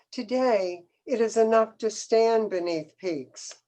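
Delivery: measured poetry recital with pauses between lines; poem reading. Acted. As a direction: read it as a poem, phrase by phrase. Reads her poem aloud.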